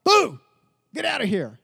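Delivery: high silly boo, then a limp shoo; a toothless playground scare; mock spooky boo. Preacher mocking a weak rebuke with a silly boo. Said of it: "there's no authority in that".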